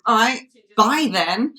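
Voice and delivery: slow, dismissive brush-off; drawn-out, unbothered send-off with a lift at the end; Vladimir Putin. Retold or imitated. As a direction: imitate a leader waving someone away. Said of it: "And Putin just went".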